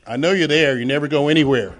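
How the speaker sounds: mock yell, laughing through it; retold yell. Woman outside his door demanding he open up, laughing mock yell. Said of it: "She yelled out".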